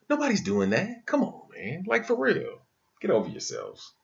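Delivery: heated rant at those who judge; indignant rant. Real, not acted. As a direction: fire up with disbelief. Indignant rant about abortion choices.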